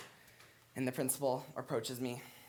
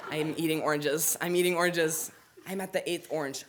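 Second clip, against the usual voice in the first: second take higher and louder; rising excitement; 4 semitones higher, 4 dB louder than usual. Retold or imitated. Storyteller reliving the contest, rising excitement. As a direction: build it up each time. Repeated line, climbing.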